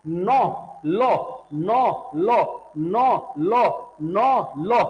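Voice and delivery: नौ and लो chanted evenly in turn, tongue on the gum ridge; same tongue position. Shown as a demonstration. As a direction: alternate नौ, लो as separate demonstration syllables. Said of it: "बोल के देखो जीभ आपकी एक ही जगह पे लेगी".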